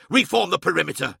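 feral snarling. A narrator's reading. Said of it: "he snarled".

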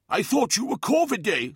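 high-pitched character voice for Lemuel; puzzled pupil. Acted. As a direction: query it high, as the puzzled neophyte.

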